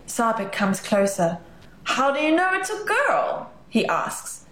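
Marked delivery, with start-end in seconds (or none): 1.8-3.5 mock upset. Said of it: "pretending to be upset".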